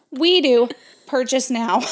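loud and cocky; loud proud declaration. Retold or imitated. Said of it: "I go".

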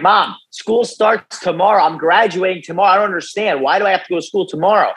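retold bewildered protest. Retold teen protest to his mom.

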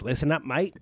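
lightly attempted Australian accent; Australian-style greeting in an amateur accent. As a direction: have a half-hearted go at an Australian accent. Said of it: "don't try to do an accent".

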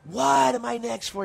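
retold shout. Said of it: "And I go".

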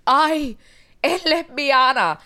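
high, loud mock gasp of a worried mother; disapproving Latina mother. Mother alarmed that her daughter plays sports, hammed-up dismay. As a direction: ham up the shocked mom spotting her sporty girl. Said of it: "when a mother sees that their daughter's into sports".

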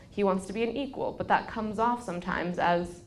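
ordinary talk, nothing marked

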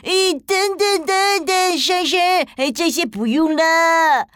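put-on high, loud flustered boy; a panicked little boy calling out; child voice. Boy protests the gift.

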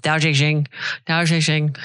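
mushy "Tao Te Ching" with "Te" said as "zhay"; marbles in mouth. Shown as a demonstration. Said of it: "I have marbles in my mouth".

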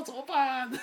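high, loud panicked cry. Retold or imitated. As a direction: squeal it like you're trapped. Panic caught in family fight.

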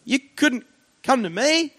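very high, squeaky nervous plea; timid plea. Retold or imitated. Scared visitor asking the receptionist to come over, high timid plea. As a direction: ask in a comically scared high voice.

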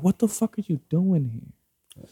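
high, slow, outraged demand; angry, shocked question. Retold or imitated. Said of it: "I'm like".

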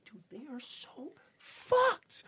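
whisper. Retold or imitated. Soldier whispering to comrades.

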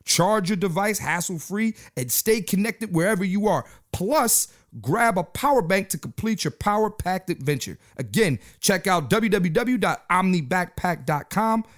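steady, promotional read-aloud delivery; sponsor ad read. Real, not acted. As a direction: read the sponsor copy out to listeners. Reads sponsor copy.

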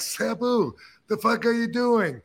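mock shocked yell at a roommate; incredulous yell. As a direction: shout in disbelief across the kitchen. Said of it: "and I'm like".

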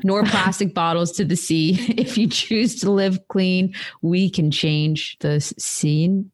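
embarrassed, giggly attempt at an Irish accent; amateur Irish accent, breaking into laughs; awful Irish accent. Shown as a demonstration. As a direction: push on through a badly faked Irish accent. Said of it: "You guys are just hearing my awful Irish accent".

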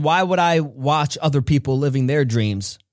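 a hint of a wise older mentor; Les Brown. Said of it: "He said".

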